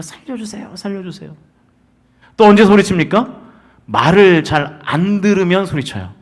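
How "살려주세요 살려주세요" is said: hushed imitation of calling for help; half-hearted stage cry, kept well under normal volume; mock cry for help. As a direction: plead "save me" in a very soft, small voice. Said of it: "우리가 소리치지 않습니까".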